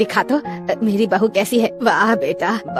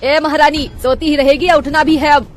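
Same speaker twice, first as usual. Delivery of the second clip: higher, louder mocking call; calling out sarcastically; 5 semitones higher, 4 dB louder than usual. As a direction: shout to wake the lazy bride. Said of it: "आवाज लगाती है". (सोती बहू को ताना मारकर पुकारती सास)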